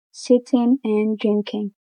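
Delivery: "sitting" and "drinking" ending in a plain N; G dropped. Shown as a demonstration. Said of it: "Final I N G pronounced as N".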